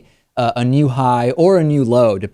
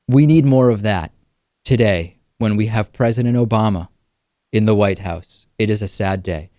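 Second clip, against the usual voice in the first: mock solemn; 3 semitones lower than usual. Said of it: "In the same way".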